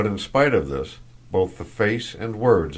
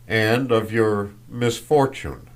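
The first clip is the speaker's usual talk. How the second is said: "misfortune" drawn out slowly and pointedly; slow, weighted emphasis on "misfortune"; stress on misfortune; 3 semitones higher, 4 dB louder, slower than usual. A narrator's reading. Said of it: "seemed to emphasize the last word".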